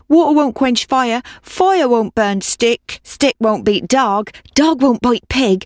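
lightly voiced old woman, slow and sing-song; a hint of a weary old woman begging; old woman's chant, slowed; old woman pleading. A narrator's reading.

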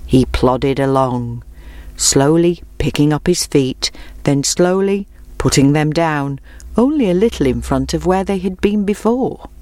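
plain reading voice

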